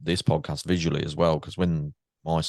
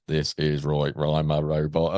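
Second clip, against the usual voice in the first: slow flat robotic read; 2 semitones lower, slower than usual. Retold or imitated. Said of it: "I sound like a robot".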